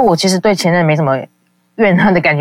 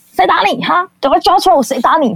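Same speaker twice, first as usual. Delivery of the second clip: imitating his mother much higher, urgent and protective; mom's alarmed voice; 12 semitones higher than usual. Retelling his mother on the phone asking who hit him, high and alarmed.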